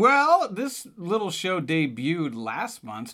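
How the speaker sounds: hammed-up Irish promo voice; Irish accent.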